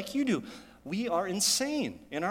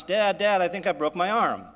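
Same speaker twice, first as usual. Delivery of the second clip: loud, raised-pitch call for Dad; retold yelling; 3 semitones higher, 5 dB louder than usual. Son runs in to tell Dad about his arm, yelling. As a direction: call out like a hurt boy yelling for help. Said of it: "He came yelling in the house".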